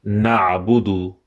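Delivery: "na'budu" with a throaty ain. Shown as a demonstration. Teacher shows students ain in "na'budu". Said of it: "with ain".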